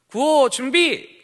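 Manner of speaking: high, slow shouted command; rally call shout. Retold or imitated. Ministry leader calling the group to the cheer, shouting. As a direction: bark it out to the crowd. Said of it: "어떻게 하느냐면".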